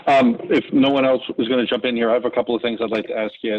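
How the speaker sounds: muffled behind a mask; talking through a face mask. Real, not acted. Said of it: "you can't tell when I'm talking with my mask on".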